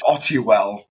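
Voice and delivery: "Ottiwell" said with no R in it; "Ottiwell", R left out; official pronunciation. Shown as a demonstration. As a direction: say "Ottiwell" the original way, without the R. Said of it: "I added an R for the Americans".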